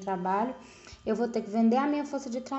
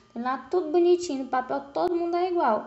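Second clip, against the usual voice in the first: ironic; 6 semitones higher, 3 dB louder, faster than usual. Acted. Ironic picture of legal equality.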